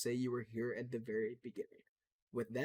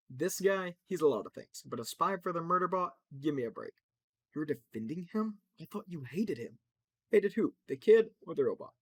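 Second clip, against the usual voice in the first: much louder, higher joking voice; boisterous showman; 4 semitones higher, 7 dB louder than usual. Acted. Mirage laughing off the spy claim, loud and high. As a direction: brush off the accusation with big bluster. Laughing character defends Crypto.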